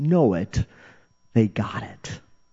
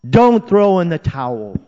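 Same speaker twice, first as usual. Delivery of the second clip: loud, high, urgent rallying cry; yelling encouragement; 7 semitones higher, 7 dB louder than usual. Acted. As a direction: shout it across a stadium. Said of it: "they're yelling to us".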